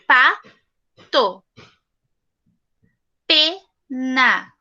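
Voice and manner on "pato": "Pato" split into two slow, loud beats; syllable by syllable. Shown as a demonstration. Teacher sounding out "Pato" for the class in two beats. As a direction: tap out each syllable of "Pato". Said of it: "o som vai sair duas vezes".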